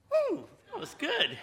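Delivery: high, delighted whoop with a laugh; excited whoop. Retold or imitated. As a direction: squeal with pleasure at the fit. Acted joy at puzzle.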